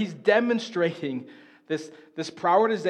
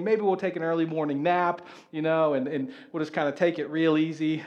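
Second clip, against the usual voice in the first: lazy lounging; 4 semitones lower, 4 dB quieter than usual. Pretend. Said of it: "he could have sat back and said".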